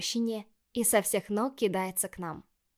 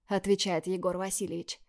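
usual speaking voice

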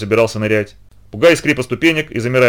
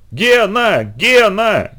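high drawn-out calling; зов криком; 8 semitones higher, much slower than usual. A narrator's reading. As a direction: call the name from below in alarm. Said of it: "кричали снизу Сева и Литка". (громко звать, высоким голосом)

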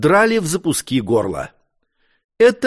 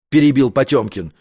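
ordinary delivery, nothing marked

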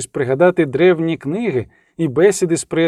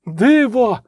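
high cry of wonder; exclaiming; 6 semitones higher than usual. A narrator's reading. Monk kneeling before a miracle, crying out. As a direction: proclaim it in pious awe. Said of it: "вигукнув один із ченців".

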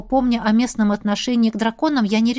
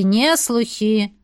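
put-on slow old man smirk; much slower than usual. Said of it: "хмыкнул Дреф".

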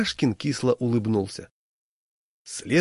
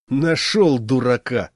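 slow, louder angry snap; mock-angry, louder and slow; angry retort; 5 dB louder, slower than usual. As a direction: spit it out slowly, annoyed. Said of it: "обозлился я".

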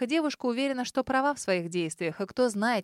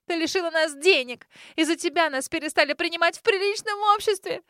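much higher and louder hysterical yelling; wild screaming; 8 semitones higher, 5 dB louder than usual. A narrator's reading. Grace blaming her sister for ruining her family, screaming wildly. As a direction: scream every grievance as if losing her mind. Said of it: "диким голосом закричав".

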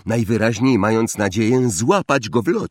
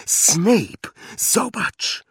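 much higher, urgent call; urgent alert; 11 semitones higher, much slower than usual. Acted. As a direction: grab his attention urgently. Hermione urgently pointing out Snape.

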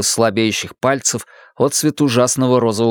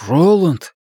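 calling out; 5 semitones higher than usual. Acted. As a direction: call him back sharply. Calling to the entranced friend.

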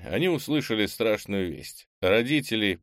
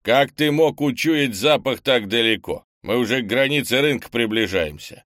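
loud, higher-pitched amazement; surprised; 4 semitones higher, 7 dB louder than usual. A narrator's reading. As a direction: exclaim in disbelief, voice raised. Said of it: "удивился Крис". (громкое изумление, повышенным голосом)

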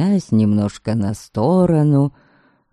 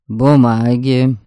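сухо; 3 dB louder than usual. Acted. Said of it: "и сухо спросил".

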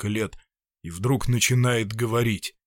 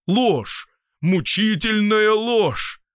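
higher, louder, dragged-out cry of pain; anguished outcry; 9 semitones higher, 5 dB louder, much slower than usual. Acted. Doctor cries out that his work is a lie, slow anguished outcry. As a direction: spit out the word as a torment.

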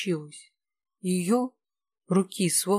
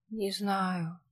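moaned; 7 dB quieter than usual. A narrator's reading. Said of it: "простонал Кирилл".

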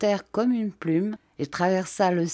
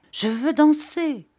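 high, loud demand; cried out; 10 semitones higher, 4 dB louder than usual. A narrator's reading. Rosa bursts in, crying out that she wants to dance. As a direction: shout it like an excited girl. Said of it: "cria-t-elle".

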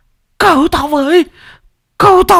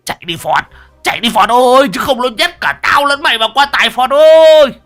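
high, loud yell to run; old man shouting to his friend as they escape; frantic yell; 5 dB louder than usual. A narrator's reading. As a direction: bellow at your friend to flee. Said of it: "mồm lão gào lên".

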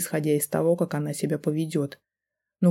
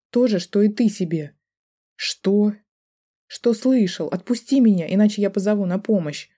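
higher, louder, shaky woman's retort; wife snapping back, voice trembling; 4 semitones higher, 4 dB louder than usual. A narrator's reading. Wife threatens to call for help, trembling. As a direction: snap back at him, scared but defiant. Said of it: "дрожащим голосом огрызнулась она".

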